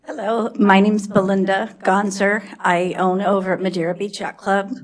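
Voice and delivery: nervous voice, shaking slightly; shaky nervous voice. Real, not acted. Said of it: "Excuse me if my voice is shaking".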